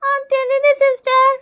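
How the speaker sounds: high, slow schoolkid voice; drawn-out little-kid reply; child pupil. Acted. Pupil telling nurse it doesn't hurt, slow child voice. Pupil answering eye test.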